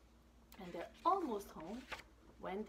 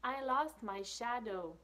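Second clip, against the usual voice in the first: lost shadow; 3 semitones higher, 6 dB louder, slower than usual. Acted. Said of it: "little cheetah answers".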